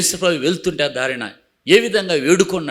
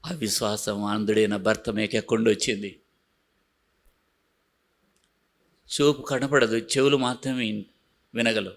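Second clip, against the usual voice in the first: hushed; 8 semitones lower, 8 dB quieter than usual. Acted. Preacher drops voice to explain.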